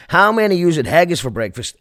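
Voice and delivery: mocking a put-on Scottish accent; stupid mock Scottish accent. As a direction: send up a singer's fake Scottish. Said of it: "he put on a stupid accent".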